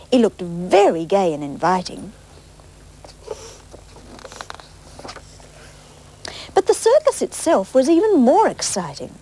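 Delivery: lively storybook reading; bright picture-book narration; reading to children. Acted. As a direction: read it to the little ones.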